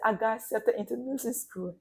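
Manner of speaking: tearful. Retold or imitated. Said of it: "I'm crying".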